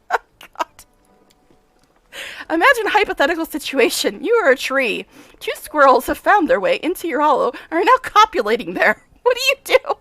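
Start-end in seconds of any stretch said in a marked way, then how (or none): 2.5-9.9 lightly played brisk, self-important scientist; a touch of the mad professor, pleased; eccentric scientist. Nenio quizzing.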